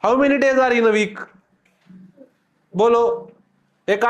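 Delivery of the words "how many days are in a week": slow reading repeated. Shown as a demonstration. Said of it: "हा, किती?".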